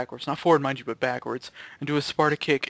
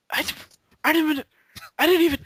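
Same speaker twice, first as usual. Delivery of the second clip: mock yell; 12 semitones higher, 5 dB louder than usual. Quoting the video's line.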